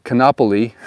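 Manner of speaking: "Kanapali" clipped to kuh-NAH-pah-lee; "Kanapali" squashed, the aa dropped; mispronunciation. Shown as a demonstration. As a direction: say "Kanapali" the rushed tourist way, one syllable short. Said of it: "It's not".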